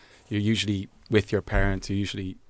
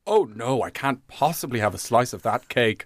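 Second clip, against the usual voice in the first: classic Irish polite refusal. Retold or imitated. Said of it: "she did the classic Irish".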